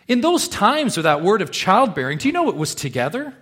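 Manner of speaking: preacher insisting on the meaning of the word, loud and high; rising preaching. Acted. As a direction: push it up to a peak. Preaching climax on childbearing.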